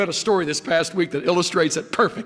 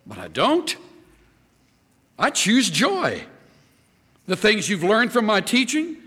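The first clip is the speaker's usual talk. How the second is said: lightly raised, confident Paul voice; voicing Paul; 3 semitones higher than usual. Paul tells the church to copy him, mildly voiced. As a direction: speak as Paul offering himself as model. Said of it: "He's just saying".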